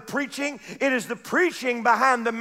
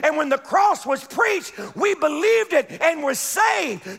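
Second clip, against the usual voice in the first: full-force preaching; 3 semitones higher than usual. Acted. Preacher testifying to the unbeliever, full-force preaching. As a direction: preach it out, building up.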